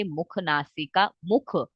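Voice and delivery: मुख नासिका said slowly, like a chant; slow rote repetition. Shown as a demonstration. Teacher drilling the answer for students, slow and chant-like. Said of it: "click हो जाना चाहिए".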